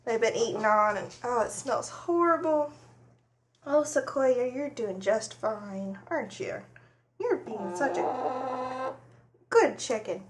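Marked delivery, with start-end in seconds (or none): 3.7-10.2 soft, slow coo to a pet hen; soothing the chicken. Real, not acted. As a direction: gently praise the nervous chicken.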